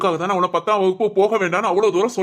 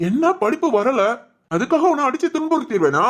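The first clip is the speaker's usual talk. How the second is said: higher, voice catching with tears; choked-up father; 6 semitones higher than usual. Acted. Father consoling his crying daughter, voice catching. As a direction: fight back tears while reassuring her.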